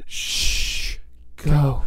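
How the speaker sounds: breathy shush, then a quiet go; performed dismissive hush on cue; whispered shush. Pretend. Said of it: "three, two, one".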